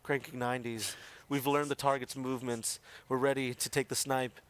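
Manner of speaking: hushed wildlife narrator voice; nature documentary. Acted. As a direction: narrate like a nature show host. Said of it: "narrate in that voice".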